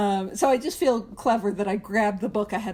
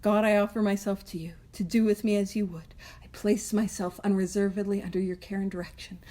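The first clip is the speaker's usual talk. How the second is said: quiet prayer; 3 semitones lower, 4 dB quieter than usual. Shown as a demonstration. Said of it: "I say that on a daily basis".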